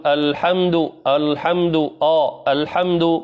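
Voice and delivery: الحمد with a thickened, heavy hamza; wrong heavy hamza. Shown as a demonstration. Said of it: "ولا نقول".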